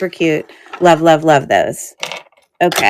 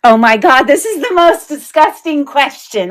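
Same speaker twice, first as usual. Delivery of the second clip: disgusted; 7 semitones higher than usual. Real, not acted. Host reacts to gross question.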